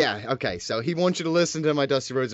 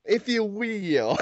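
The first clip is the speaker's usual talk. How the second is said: very slow, drawn-out "If you will" in mock Dusty; echoing Dusty; 5 semitones higher, much slower than usual. Cohost echoing the guest's Dusty line slowly. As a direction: drag it out, imitating Dusty.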